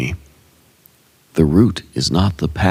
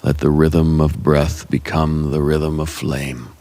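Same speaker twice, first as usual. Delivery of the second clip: ordinary delivery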